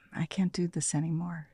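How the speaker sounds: hushed, breathy whisper of a private decision; whispered inner thought. Retold or imitated. Recalling the moment she decided, whispering to herself. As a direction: whisper it to yourself like a secret realization.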